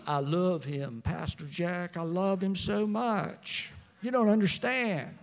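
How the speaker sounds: lightly voiced lovestruck bride-to-be; hint of a smitten counseling client; gushing engaged person. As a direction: gush earnestly to the pastor, drawing out the words. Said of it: "they come in and they say".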